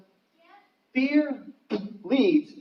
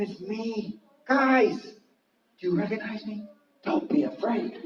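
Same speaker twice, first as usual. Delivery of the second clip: reassuring; 5 semitones higher, 3 dB quieter than usual. Acted. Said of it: "He's saying".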